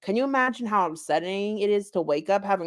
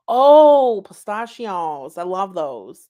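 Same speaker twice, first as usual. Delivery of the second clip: giggly delight; 7 dB louder, slower than usual. Acted. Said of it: "giggled obnoxiously".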